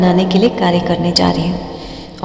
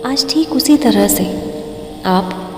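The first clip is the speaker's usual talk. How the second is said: slow, drawn-out meditation guidance with long pauses; guided meditation. Acted. Meditation teacher guiding listeners through breathing, slow guided-meditation voice. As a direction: stretch key words and leave room to breathe.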